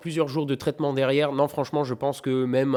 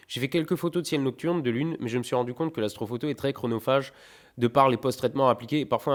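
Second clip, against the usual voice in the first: letter read aloud. Acted. Reading Romain's letter.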